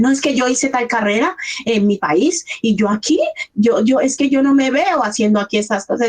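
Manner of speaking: a hint of an objecting newcomer; protesting newcomer. Retelling what migrants say in counselling, mildly protesting. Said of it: "lo primero que me dicen".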